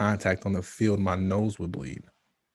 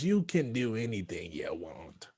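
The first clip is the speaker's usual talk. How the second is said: whisper; 6 dB quieter, slower than usual. Acted. Mocking motivational mantra, whispered.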